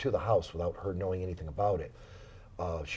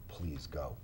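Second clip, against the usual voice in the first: put-on sad little girl; 6 semitones lower, 12 dB quieter than usual. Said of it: "this very sad little girl respond".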